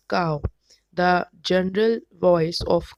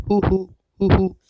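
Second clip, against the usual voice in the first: owl hoot; 5 dB louder, faster than usual. Retold or imitated. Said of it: "Owl makes a sound of hoot".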